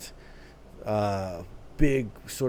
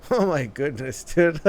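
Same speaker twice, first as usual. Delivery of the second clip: louder, higher, bursting with excitement; excited outburst; 7 semitones higher, 7 dB louder than usual. Real, not acted. Reacting to a striking K-pop outfit, excited outburst. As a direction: blurt it out, overwhelmed by the outfit. Reacting to a stunning music video look.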